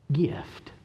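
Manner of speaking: whispered GIFT; soft, breath-only emphasis; hushed repeat. Real, not acted. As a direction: let the key word drop to a whisper. Repeats key word for effect.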